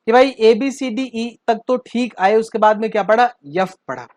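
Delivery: imitating students drawling the alphabet; mock village kid reciting ABCD; mock rural abcd recital. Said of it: "बच्चे एफ नहीं पढ़ते हैं, यफ पढ़ते हैं".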